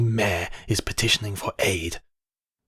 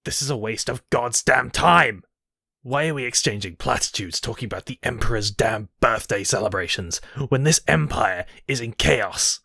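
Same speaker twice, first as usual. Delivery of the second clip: furious outburst. Acted. Emperor raging at his useless council, furious outburst. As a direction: blast the council with scorn.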